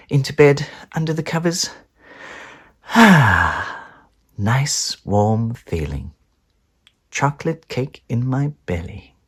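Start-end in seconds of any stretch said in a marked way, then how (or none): 3.0-6.1 slow, satisfied and cosy; contented sigh. Acted. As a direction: sink into the covers. Snug in bed.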